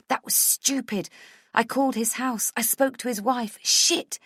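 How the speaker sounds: high, agitated cursing at oneself; panicked self-reproach. A narrator's reading. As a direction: berate yourself in panic. Panicked self-reproach, slapping forehead.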